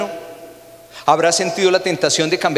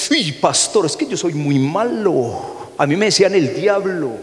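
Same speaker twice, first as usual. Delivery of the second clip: higher, put-on dramatic confession; visitor confessing; 4 semitones higher than usual. A pastor mimicking visitors at his office, dramatic. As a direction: overplay the bad guy. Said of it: "llegan a la oficina y dicen".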